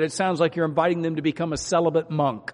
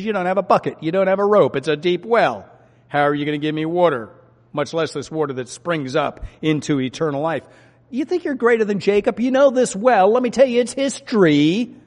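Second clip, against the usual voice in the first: sarcastic retort; 2 semitones higher, 3 dB louder than usual. Retold or imitated. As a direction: needle him like you're the smart one. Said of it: "She responds with a sarcastic answer".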